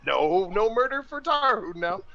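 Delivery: high, put-out grumble; grumbling. Acted. Tarhun dismissing the sword, grumbling. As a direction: complain to yourself, sulkily. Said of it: "still grumbling like that".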